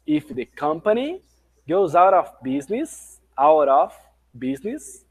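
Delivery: slow phrase by phrase, pausing between parts; slow, broken into chunks. Shown as a demonstration. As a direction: break the line into slow chunks for learners. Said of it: "passar mais uma vez aqui com vocês a pronúncia".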